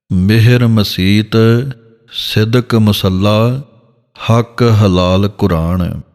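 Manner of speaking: slow, measured gurbani reading; scripture recitation. Shown as a demonstration. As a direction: recite it slowly like a kirtan line.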